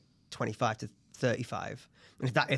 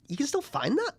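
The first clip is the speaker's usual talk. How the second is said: mock parent voice; 13 semitones higher than usual. Mocking parents' booze finds.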